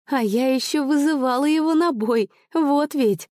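put-on high, indignant young sister; a high girlish huff of outrage. A narrator's reading. Sister voiced in story.

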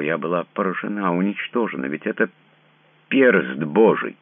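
she is overwhelmed by a sign from God; awed, shaken. A narrator's reading. She pleads her shock.

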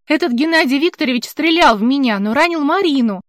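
rising panic until tears choke it; distraught, near tears. Acted. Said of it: "Она зарыдала".

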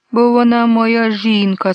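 high, loud, slow sob through words; sobbing. A narrator's reading. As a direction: sob it out like a wronged child. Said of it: "схлипнув карлик". (схлипує високо й голосно)

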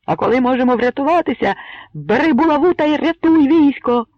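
loud, high, fervent pleading harangue; impassioned outcry. A narrator's reading. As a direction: rouse the crowd to hope. Bohun's impassioned speech to crowd. (Богун палко переконує юрбу)

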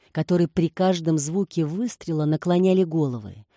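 usual speaking voice

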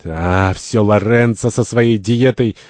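mild, stagy grumble; grumbling. Acted. Santori blames Lorenzo's diet, grumbling. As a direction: grumble with a drawn-out start. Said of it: "Сантори ворчит".

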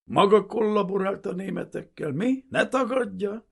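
high, furious shouted accusation; loud interrogator's outburst; sudden yell. A narrator's reading. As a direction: explode at the accused. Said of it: "üvöltött rá hirtelen".

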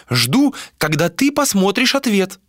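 put-on high old seer's voice; old woman voice. A narrator's reading. Old seer voiced by narrator.

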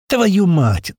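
high, loud pained curse; loud rubbing-head curse. Acted. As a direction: curse after the blow. Head hit on dashboard.

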